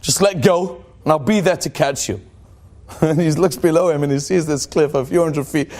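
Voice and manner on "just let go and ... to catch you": lightly voiced God, a bit lower; voice from heaven. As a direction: reassure as a lightly played God. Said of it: "this voice comes out of heaven".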